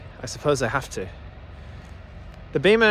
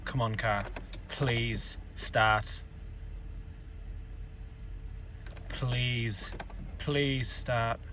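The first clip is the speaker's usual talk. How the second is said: soft pleading under the breath; psyching myself up; 5 semitones lower, 13 dB quieter, much slower than usual. Real, not acted. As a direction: quietly beg the car to start. Car won't start in cold.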